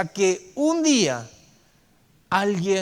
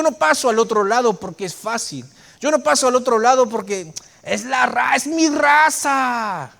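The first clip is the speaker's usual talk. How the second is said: preaching shout; 3 semitones higher, 4 dB louder than usual. Real, not acted. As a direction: hammer the point home at the top of the voice.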